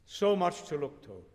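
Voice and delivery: a hint of a flustered woman; flustered Annie. A narrator's reading. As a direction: put him off, flustered. Annie's flustered excuses voiced.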